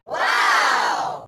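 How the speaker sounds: long drawn-out wow; awed exclamation. Acted. Reacting to the seven wonders, amazed. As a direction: gasp it out in amazement. Exclamation at amazing man-made creations.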